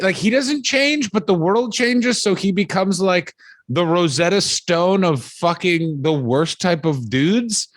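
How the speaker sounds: high drawn-out disbelief; exasperated mock explanation. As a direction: spell it out to a time traveler, slowly. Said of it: "That guy".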